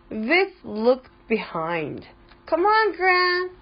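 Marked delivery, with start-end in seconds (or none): 2.5-3.5 high, urging storybook shout. A narrator's reading. Viv urging Gran on in the race, high shout. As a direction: cheer the driver on, pitched high. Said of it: "she shouted".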